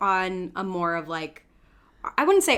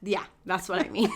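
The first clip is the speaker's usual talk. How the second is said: amused; 6 semitones higher than usual. Real, not acted. Laughing at her own slip.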